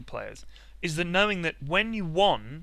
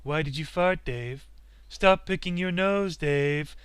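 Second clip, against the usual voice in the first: lightly voiced calm computer, slow and even; a hint of a cold machine chiding; mild mock AI monotone, slowed; HAL 9000; slower than usual. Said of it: "like, Hal nine thousand following you".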